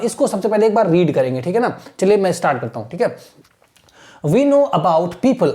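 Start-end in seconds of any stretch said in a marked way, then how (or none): 4.2-5.5 slow, measured read-aloud for pupils; careful teacher's reading; model reading. Shown as a demonstration. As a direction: read it out slowly for learners to copy. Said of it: "आपको देखना है कि how am I reading".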